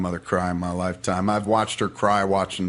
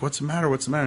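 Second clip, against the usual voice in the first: higher-pitched imitation of a panicked mother; mom freaking out; 6 semitones higher, much faster than usual. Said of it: "Mom freaked out".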